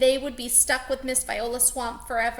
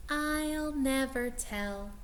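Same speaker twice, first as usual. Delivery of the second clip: smiling to herself; 2 semitones higher, 3 dB quieter, slower than usual. Acted. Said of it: "she said to herself with a smile".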